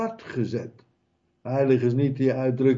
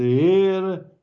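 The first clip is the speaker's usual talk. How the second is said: pleading; 5 semitones higher, 4 dB louder than usual. Acted.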